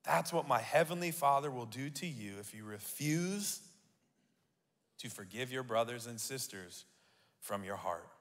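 drops low and soft on the repeat; quiet grave repeat. Shown as a demonstration. Pastor rereads the harsh verse to the congregation, soft and low. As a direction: let the warning sink in quietly. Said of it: "did you have to say it like that".

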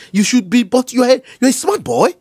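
put-on high-pitched cajoling of a child; butter the boy up, pitch climbing; coaxing. Scammer soothing an upset boy.

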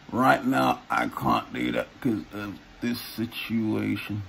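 ventriloquist talk, lips frozen; words through a stiff mask; talking without moving lips. Shown as a demonstration. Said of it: "I can speak without moving my lips".

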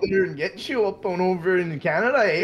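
put-on Canadian buddy accent; playful threat in a Canadian accent; hammed-up Canadian with a tagged-on "eh". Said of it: "I can do a better U K accent than Canadian".

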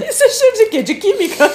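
laughing through the question; giggling, high-pitched and amused. Real, not acted. Laughing at a chemical smell.

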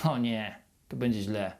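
doubting yourself while waiting, softly fearful; poisoned worried thoughts. Retold or imitated. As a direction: sink into quiet dread. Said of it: "wchodzi taka trucizna do twojej głowy".

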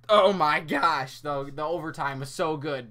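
breathless, winded; talking out of breath. Real, not acted. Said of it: "I gotta catch my breath here a second".

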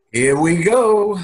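put-on New York accent. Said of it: "making fun of my New York accent".

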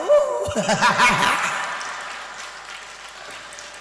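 long rising laugh; real laughter. Real, not acted. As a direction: burst out laughing. Laughter alone. (tiếng cười lớn)

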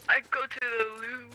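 mock British. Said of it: "she teaches me the slang".

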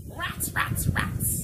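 loud breathy cat mutter; grumbling cat. Acted. The cat with no mat, grumbling rats. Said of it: "One fat cat thinks".

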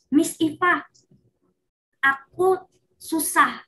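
a pupil telling Miss Iva that the lesson is too hard; child calling teacher. Retold or imitated. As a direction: call your teacher for help like a struggling kid. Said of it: "Dia bisa bilang".

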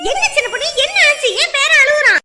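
loud, high, urgent questions; alarmed questioning. Acted. Grandmother rushing in to crying grandson, alarmed questioning. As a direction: demand anxiously what is wrong.

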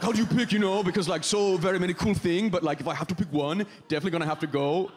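eager foreign exchange student English; halting, chirpy non-native accent. Acted. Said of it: "sounding like an exchange student".

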